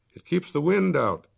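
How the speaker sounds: Alex shouting from the car, a mild shout. Acted. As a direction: call out over the road noise. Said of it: "Alex shouted".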